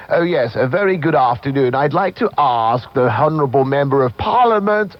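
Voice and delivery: mock posh BBC English accent, lightly done; plum in the mouth. Caller mimics a posh BBC announcer, mock posh English accent. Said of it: "with a plum in their mouth".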